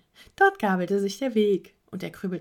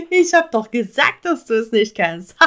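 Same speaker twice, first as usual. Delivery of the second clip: gloating owl; 8 dB louder than usual. Acted. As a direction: rub it in like a know-it-all bird. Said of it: "Der Uhu lachte aus vollem Halse".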